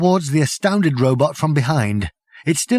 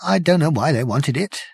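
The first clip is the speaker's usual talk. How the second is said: hoarse whisper; 6 semitones higher than usual. Acted. Journalist voice continues.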